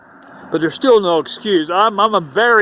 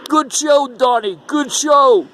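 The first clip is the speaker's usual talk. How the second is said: higher, hammed-up Italian mafia accent; movie mobster accent; 7 semitones higher, slower than usual. Mobster backstage praising young Donnie, hammed-up Italian mafia accent. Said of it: "You know how the mob-, you see it in movies".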